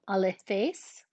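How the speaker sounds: alethes with the stress simply put on the accented syllable, not pitched; English-style stress. Shown as a demonstration. Teacher shows students stress on the accented syllable of alethes. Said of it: "I just put the stress wherever the accent is".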